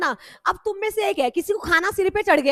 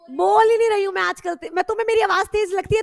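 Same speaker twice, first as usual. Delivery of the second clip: raised, higher-pitched protest; loud voice; 4 semitones higher, 5 dB louder than usual. Real, not acted. Teacher defending her voice to students, loud protest. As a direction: protest loudly at the complaint. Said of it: "अरे कानों में तेज से".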